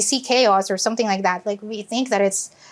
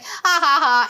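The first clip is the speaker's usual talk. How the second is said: mock laugh; 3 semitones higher than usual. Husband's deadpan laugh look.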